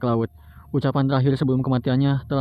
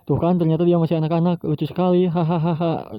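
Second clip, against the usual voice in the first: mocking laugh; 4 semitones higher than usual. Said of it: "menertawakan Luffy".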